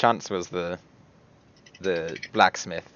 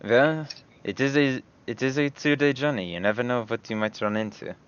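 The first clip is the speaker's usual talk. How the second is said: Hiada in character. Acted.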